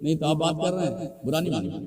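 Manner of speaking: quiet polite request. Real, not acted. Visiting preacher asking chattering listeners to pay attention, quiet request. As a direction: ask for attention gently, voice dropped.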